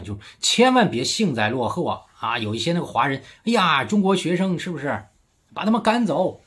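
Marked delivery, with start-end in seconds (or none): 3.4-6.4 mocking imitation of gloaters, pitched higher; mock gloating voice. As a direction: ham up a smug gloater cheering the expulsions. Mocking gloating overseas Chinese. (嘲讽模仿幸灾乐祸的口气，音调抬高)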